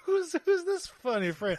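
slow, high cowboy drawl. Acted. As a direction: drawl it like an old cowpoke. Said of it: "Cowboy Voice Week".

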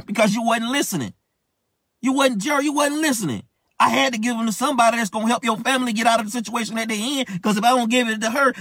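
high-pitched, exasperated reprimand; God's scolding. Acted. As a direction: pitch it way up and lecture insistently as God. Acting out God scolding him.

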